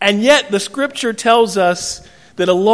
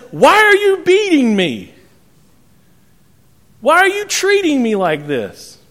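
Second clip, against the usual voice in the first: very high comic donkey whine; hammed-up wail of a wronged donkey; complaining donkey; 10 semitones higher, 3 dB louder than usual. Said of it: "hear the voice of Eddie Murphy".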